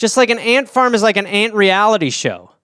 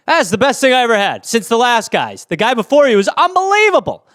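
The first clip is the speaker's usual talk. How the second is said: higher, overexcited praise; gushing judge; 3 semitones higher than usual. Acted. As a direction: rave about everything. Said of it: "me as a judge".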